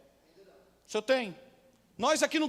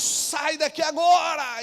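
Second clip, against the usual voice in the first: slow, drawn-out gunman's command; menacing gunman order; 5 semitones higher, 4 dB louder, much slower than usual. Retold or imitated. Masked gunman orders the church, slow threat. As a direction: spell out the threat slowly, word by word.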